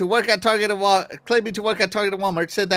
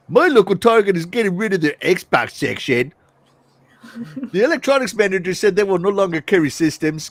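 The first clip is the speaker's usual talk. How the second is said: troll voice. Acted. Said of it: "that's my troll voice".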